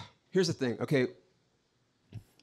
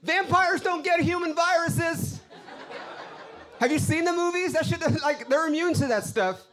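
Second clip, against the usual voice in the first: mock indignant; 5 semitones higher than usual. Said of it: "I was like".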